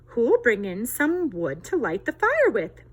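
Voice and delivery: lightly voiced busy hen; little red hen asking. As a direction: ask it like a busy mother hen. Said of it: "she asked".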